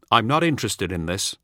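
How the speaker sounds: firm, with "not" stressed; a flat refusal, no room for argument; a farmer shutting down an old comrade; firmly. Acted. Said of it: "All says firmly".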